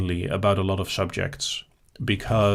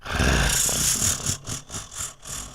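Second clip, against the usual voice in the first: snake hiss; 10 semitones lower, 6 dB quieter than usual. Shown as a demonstration. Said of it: "maybe we can have, like, a".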